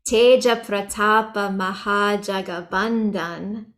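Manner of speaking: slow recitation, Mahajagabandhan ending on the N; final A dropped. Shown as a demonstration. Teacher reciting a chant line as example, final A left off Mahajagabandhan. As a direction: close Mahajagabandhan on N with no A. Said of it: "without the A at the end".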